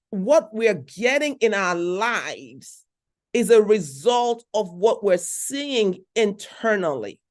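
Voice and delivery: slow, weighing each word; slow teaching emphasis; slow and deliberate. Real, not acted. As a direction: lay it out slowly so it sinks in. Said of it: "Let me say that again".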